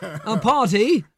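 "a party" stretched very slow and laughing; slow, laughing "a party" in a light Ace Ventura voice; Ace Ventura catchphrase. Retold or imitated. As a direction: draw out "a party" slowly with a laugh. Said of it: "that was that Ace Ventura that used to do that".

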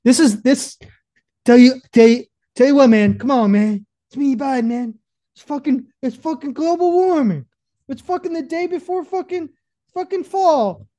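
bad Biden accent sliding into Italian, very high. Riffing as Biden on the ninety-seven degree heat, bad accent impression. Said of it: "trying to do a Biden accent".

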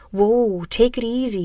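gently placating; calm, reassuring. A narrator's reading. Big man to armed stranger, calm and reassuring. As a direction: ease them down. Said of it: "in a calm, reassuring tone".

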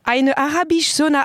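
sounding out a German sauna name; reading German aloud. Shown as a demonstration. Reading a German ad to a friend, carefully. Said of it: "T'as dit comment?".

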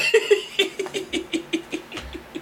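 high, breathless laughing fit; soft, high wheeze of laughter; wheezy laugh. Real, not acted. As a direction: laugh until only wheezes come out. Laughing after retold argument.

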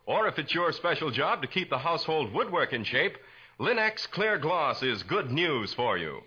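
bright, persuasive announcer pitch; old-time radio commercial voice; radio ad read. Acted. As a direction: sell it to the housewife like a 1940s radio announcer. Announcer reads sponsor ad.

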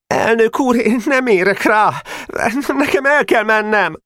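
high-pitched, desperate protest; near-tearful anger. A narrator's reading. Small boy interrupting the president, almost crying with anger. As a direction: plead to leave, almost crying with rage. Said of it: "majdnem sírt dühében".

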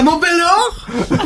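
put-on German accent. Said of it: "L'accent allemand".

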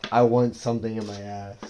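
put-on yell at ordinary pitch; mock yell. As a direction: quote someone yelling, only raising the volume. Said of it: "that would hear you yelling".

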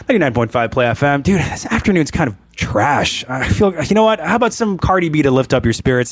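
laid-back station ident, like normal talk; casual ad lib. Shown as a demonstration. DJ demonstrating a conversational on-air ad lib, casual. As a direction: toss off the ident casually, no announcer pitch. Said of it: "Or I can even be like".

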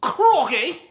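high, loud mock Australian; Australian accent. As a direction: yelp it in a cartoon Australian accent. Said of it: "Australian accent is pretty cool too".

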